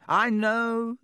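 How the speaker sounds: high, loud, gushing agreement; delighted boasting. A narrator's reading. Lockhart mistakes Harry's shock for awe, gushing. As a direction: crow with self-satisfaction. Lockhart gushes over his success.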